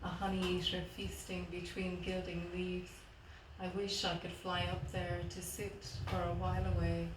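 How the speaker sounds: measured poem reading with pauses between lines; poetry reading. Acted. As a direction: read your poem to an audience, line by line. Reads third poem aloud.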